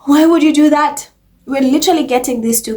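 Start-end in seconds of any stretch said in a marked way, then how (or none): 0.0-1.1 incredulous. Retold or imitated. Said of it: "And people are like".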